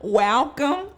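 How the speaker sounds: hammed-up teary host's greeting; Brandis. Co-host teasing her friend with an impression, mock-emotional. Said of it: "let me just do my Brandis".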